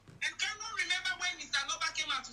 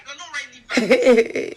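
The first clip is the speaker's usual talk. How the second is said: slow dismissive put-down; 16 dB louder, much slower than usual. Real, not acted. Dismissing the young man.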